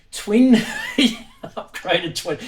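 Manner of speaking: cracking up mid-word, pitch leaping; struggling not to laugh. Real, not acted. Reading an eBay listing to viewers, breaking into laughter. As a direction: try to keep a straight face and fail. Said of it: "I'm trying to keep a straight face".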